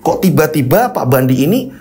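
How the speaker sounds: dramatic cliffhanger questioning; suspenseful narration. A narrator's reading. Storyteller leaves listeners hanging before part two, suspenseful questioning. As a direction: tease the mystery question by question.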